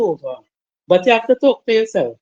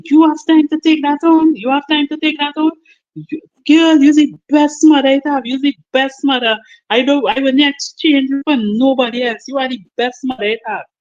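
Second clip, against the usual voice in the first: higher, insistent daughter's voice; encouraging daughter; 4 semitones higher than usual. Retold or imitated. Daughter comforts crying mother.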